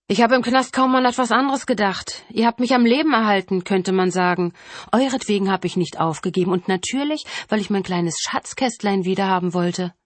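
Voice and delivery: gloating killer. Acted. Killer tells the family of prison thoughts, gloating. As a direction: confide it with gloating relish.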